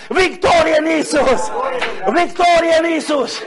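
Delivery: high, ringing revival proclamation; fervent preaching. Real, not acted. Preacher rousing the church to sing victory, fervent preaching. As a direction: drive each phrase home at full force.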